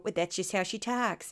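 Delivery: lightly voiced Midwestern mom with Southern twang; mom's Midwestern twang. Host doing her mom, light Midwestern twang. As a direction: put on a St. Louis mom's accent, Midwestern with twang. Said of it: "I'm gonna do my mom".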